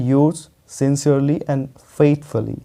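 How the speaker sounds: "faithfully" ending said fə-li, slowly; slow careful pronunciation. Shown as a demonstration. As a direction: say "yours sincerely and faithfully" slowly, "-fully" as fli. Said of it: "ये फली होता है ना कि फूली".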